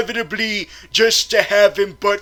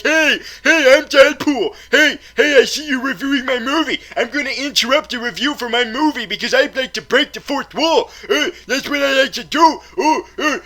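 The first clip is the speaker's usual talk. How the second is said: mock Deadpool; 3 semitones higher than usual. Reviewer mocking Deadpool interrupting his review, hammed-up. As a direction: play the smug fourth-wall breaker. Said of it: "and be like".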